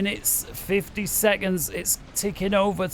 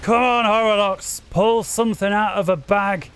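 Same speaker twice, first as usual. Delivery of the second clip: excited commentator urging a player on; will the player on with real excitement; excited pleading; 2 semitones higher than usual. Real, not acted. Commentator begging the losing player for a comeback, excited. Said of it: "you can hear me excitement there".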